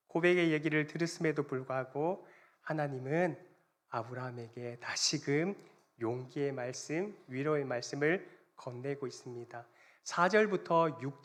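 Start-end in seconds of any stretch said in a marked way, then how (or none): none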